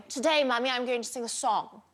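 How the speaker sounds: put-on daughter's posh English accent. Mum quoting her daughter announcing a song, posh English accent. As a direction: imitate a very posh English child. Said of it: "you did quite a posh English accent".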